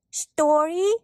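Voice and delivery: put-on high, rising little-child plea; baby sister. A narrator's reading. Baby sister begging for a story, hopeful little voice. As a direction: ask hopefully in a small high voice. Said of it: "asked her baby sister Jeanette".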